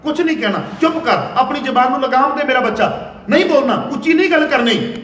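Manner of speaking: mother's stern warning. Retold or imitated. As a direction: hush him firmly, half laughing. Mother scolding son to hush.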